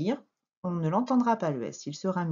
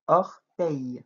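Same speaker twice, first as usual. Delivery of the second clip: "Orteil" split as "or", "teil"; syllable dictation; 3 semitones lower than usual. Shown as a demonstration. Teacher dictates word by syllables.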